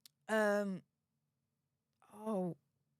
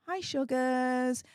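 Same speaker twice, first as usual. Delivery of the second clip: slow, drawn-out mock-sweet hello; cheeky greeting; much slower than usual. Streamer greets those who tried to stop her, cheeky and drawn-out. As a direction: stretch out a teasing little greeting.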